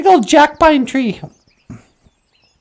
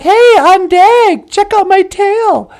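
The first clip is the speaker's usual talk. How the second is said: higher, louder show-off voice; boastful beaver; 5 semitones higher, 4 dB louder than usual. Acted. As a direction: brag about the tail to the crow. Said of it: "He's like".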